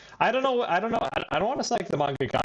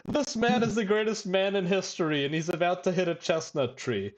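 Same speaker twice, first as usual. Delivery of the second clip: mock impassioned rant, pitched up without real volume; retold shouting; 4 semitones higher than usual. Fan retelling a manga character's outburst to the restaurant, mock shouting. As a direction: imitate a high-pitched indignant tirade, easing down at the end. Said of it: "Dude, stop shouting".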